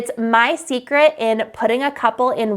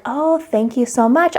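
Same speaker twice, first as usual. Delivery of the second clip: calm; 3 semitones higher than usual. Shown as a demonstration. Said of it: "I speak really calmly".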